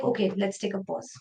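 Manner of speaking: calming self-talk. Retold or imitated. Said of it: "I will be like".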